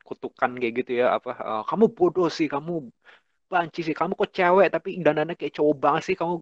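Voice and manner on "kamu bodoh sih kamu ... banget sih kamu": higher mocking jeers; lightly voiced mocking parent. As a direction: jeer at the child like a blunt parent. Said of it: "orang tua ngomong kayak gitu frontal".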